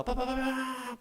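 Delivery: rapid-fire trumpet fanfare imitation; imitated trumpet. Trumpets as background music to the command, imitated fanfare. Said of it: "나팔 소리가".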